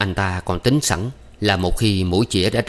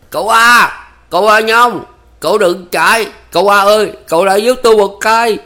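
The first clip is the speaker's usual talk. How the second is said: frantic high yell into the dark; desperate shout; 12 semitones higher, 8 dB louder than usual. A narrator's reading. Ba Lành yelling for the fleeing man's help, frantic. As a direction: call out at the top of his lungs. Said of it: "cất tiếng gọi thất thanh".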